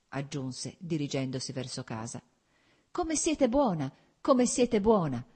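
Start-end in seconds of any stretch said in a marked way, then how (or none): 2.9-3.9 slow and much higher, each word drawn out; moved exclamation. A narrator's reading. Kitty exclaims to Varinka, moved and slow. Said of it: "esclamò Kitty". 4.2-5.2 slow and louder, higher, weight on come; moved exclamation. A narrator's reading. Kitty exclaims again to Varinka, louder and slow. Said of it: "esclamò Kitty".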